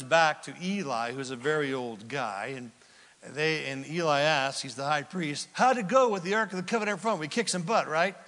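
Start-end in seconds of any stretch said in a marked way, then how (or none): 5.5-8.1 put-on eager old Eli. Eli voiced asking the runner.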